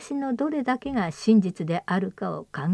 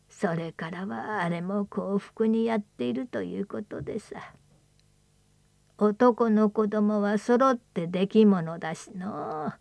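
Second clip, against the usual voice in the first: put-on creaky wise old man. Old man's story.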